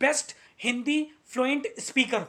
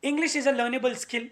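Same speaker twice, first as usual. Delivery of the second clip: every word laid out slowly for learners; slow, deliberate stress; much slower than usual. Shown as a demonstration. Teacher slowly stressing a key line to nervous learners, deliberate.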